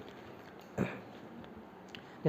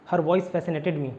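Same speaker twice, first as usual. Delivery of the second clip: slow dictation; 2 semitones lower, much slower than usual. Shown as a demonstration. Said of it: "teacher dictating example sentence".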